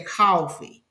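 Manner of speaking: Georgia "coffee" with an open ah vowel, like cahfee. Shown as a demonstration. Contrasting Georgia with her Brooklyn roots, Southern cahfee. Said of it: "but in Georgia, they say".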